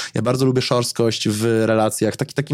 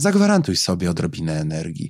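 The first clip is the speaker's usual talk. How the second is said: resonant, deep, swooping put-on therapist diaphragm voice; 6 semitones lower than usual. Mocking how psychologists talk to fourteen-year-olds: mock psychologist diaphragm voice. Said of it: "z tym takim przeponowym, dodatkowym brzmieniem".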